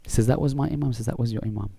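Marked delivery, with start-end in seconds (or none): 0.3-0.9 slightly raised, questioning retold reply; questioning echo. Man questioning the scholar about his Imam, questioning echo. Echoes it back in disbelief. 1.1-1.7 softer, settled retold answer; grave confirmation. Scholar confirming it to the embarrassed man, grave and quiet.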